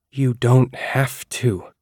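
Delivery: flat, slow and strange. Acted. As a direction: say it slowly, emptied of feeling. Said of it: "my voice was flat and strange".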